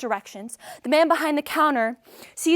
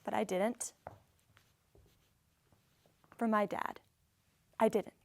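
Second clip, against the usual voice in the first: subdued restraint; 2 semitones lower, 10 dB quieter than usual. Acted. Daughter restraining herself for her dad, quietly subdued. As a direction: drop right down, holding it in. Holds anger back for dad.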